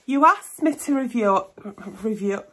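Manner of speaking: speaking without her teeth in; words a bit slurred, no dentures; loose dentures. Real, not acted. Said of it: "put my teeth in".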